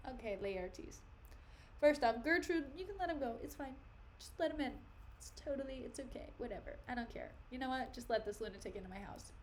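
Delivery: soft, offhand royal brush-off; casually resigned, played for laughs; mock dismissive king. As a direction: wave it all away under your voice. King paraphrased as unbothered, waving it off.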